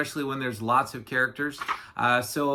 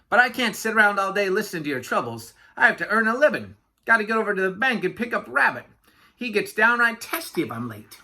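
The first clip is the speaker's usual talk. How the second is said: quick, higher-pitched patter; busy chatterbox Yak; 5 semitones higher, faster than usual. Acted. Yak dismissing Walrus's troubles, hurried chatter. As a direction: brush the passenger off briskly.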